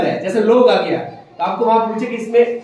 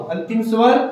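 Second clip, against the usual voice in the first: "अंतिम स्वर" called out loud, rising at the end for the class to finish; teacher calling out "अंतिम स्वर" so students complete it; loud prompt. Shown as a demonstration. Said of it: "अंतिम स्वर आओ।".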